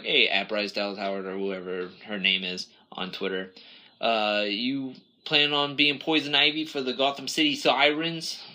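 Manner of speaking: put-on hamming an invented accent for some guy on Twitter; made-up accent. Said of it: "I don't know what accent that was, but I just made it up".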